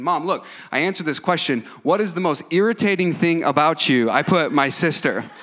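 a hint of an eager kid showing off; lightly voiced proud child. Son showing Mom his school answer, lightly imitated and emphatic.

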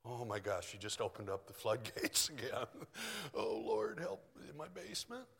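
quiet, low mock-plea to the Lord; retold groggy worry. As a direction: softly act out a night-time "oh no". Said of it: "I woke up at four A M going".

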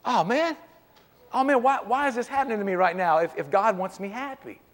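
a touch of a mock whine; mock whining. A believer whining to God when problems come, in a mild mock whine. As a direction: complain like a self-pitying believer. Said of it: "I do this number".

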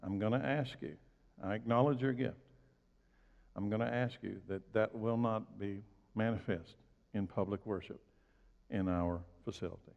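low, soft and measured, with pauses; quietly respectful, without pressure; respectful request. Retold or imitated. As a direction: make a calm, deferential request. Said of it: "very respectfully will say".

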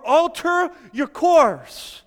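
high, slow, drawn-out shout; loud commanding cry. Acted. Preacher voices warning from the light of the world, slow shout. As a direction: call out the order at full force.

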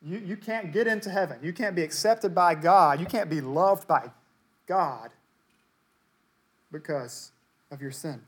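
mock a self-righteous critic pointing a finger; accusing voice. Someone tells the self-righteous they need grace, in an accusing voice. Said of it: "someone comes along to say".

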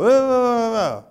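high, loud mock-passionate interpreter; a playful impression of an overexcited interpreter; imitating the interpreter. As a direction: ham up the fiery translator. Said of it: "the interpreter would go".

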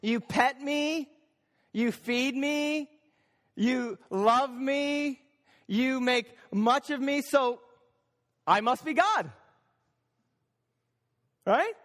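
lightly voiced cat, each favour counted off slowly; self-important cat. Cat tallying its owner's favours, self-important. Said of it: "So the cat goes".

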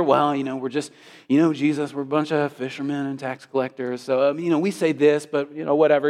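lightly mocking false modesty; a hedging, self-deprecating mumble-along act; false humility. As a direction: play it mildly noncommittal, as if excusing yourself. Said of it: "There's no false humility here".

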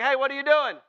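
loud, high mock challenge; calling out. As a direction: call out to stop a passerby. Acted challenge to naked walker.

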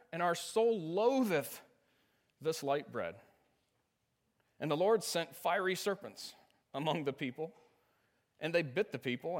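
measured formal Bible reading; scripture reading. Acted. Pastor reads Numbers twenty-one to the congregation, formal and measured. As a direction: read the King James text with dignity.

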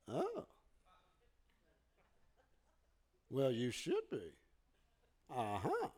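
low, quiet, dismissive mock response; mild disdain. Someone answers pastor's big-life line, with a little disdain. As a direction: imitate a grudging, faintly scornful reply. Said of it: "like, with a little disdain".

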